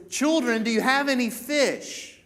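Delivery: imitating a shout from shore; retold yell. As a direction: call it out across the water. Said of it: "he yells out to them".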